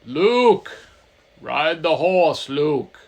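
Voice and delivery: loud, drawn-out call of a voice in his head. Acted. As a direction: boom it out like a voice inside his head. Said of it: "the voices kept saying".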